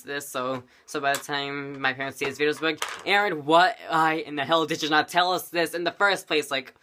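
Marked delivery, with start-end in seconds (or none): 3.0-6.5 louder, indignant demand; scolding parent. Retold or imitated. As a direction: imitate an outraged parent. Voices upset parents scolding.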